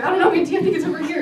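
high, loud silly pup voice; squeaky puppy talking back; dog's voice. Retold or imitated. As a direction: voice the dog as a goofy little kid. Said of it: "He's like".

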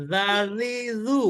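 জাজিজু with a thin, light জা, drawn out slowly; thin za sound. Shown as a demonstration. Teacher showing students a thin জ sound, slow and light. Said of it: "পাতলা হবে, পাতলা, জালটা পাতলা".

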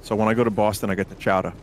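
put-on lightly done Boston accent; just a hint of Boston in the vowels. A gamer tells friends about Boston chowder in a light Boston accent. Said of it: "that was a good accent, Vinny".

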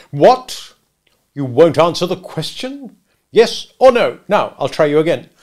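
loud, high, incredulous badgering; hectoring lawyer; bullying cross-examiner. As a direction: pounce on an evasive witness. Stranger cross-examining Mister Wopsle.

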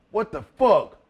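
mock-shocked exclamation; incredulous. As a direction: act out being floored by the news. Partner reacts to his new name.

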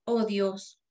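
measured psalm reading, pausing after each verse; slow scripture reading. Real, not acted. Lay reader reading Psalm fifty-one for others to note words, slowly. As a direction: read it unhurriedly, verse by verse. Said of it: "voy a leerlo despacito".

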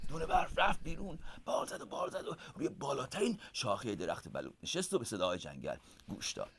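hushed bedtime-story narration. A narrator's reading.

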